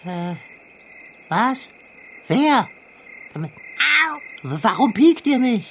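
groggy, startled mumble; half asleep, panicking; waking from a nightmare. Acted. Talking while waking from nightmare.

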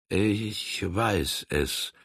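slow, reluctant admission; grudgingly, as if unwilling to recall. Acted. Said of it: "als ob er sich nur ungern an diesen Umstand erinnern lasse".

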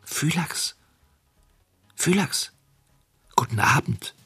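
high, soft lisping whisper; sly weasel lisping at the kennel; lisping marten. Acted. (lispelnder Marder)

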